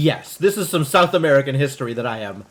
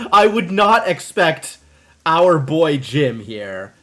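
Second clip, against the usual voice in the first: mock solemn; 3 dB louder, much slower than usual. Teasing Jim about Portuguese, mock grave and slow. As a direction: drag it out like a stern pronouncement.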